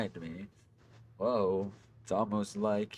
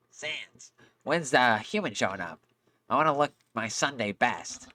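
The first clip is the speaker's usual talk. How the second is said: Papyrus voice; 4 semitones higher than usual. Acted. Voicing Papyrus again.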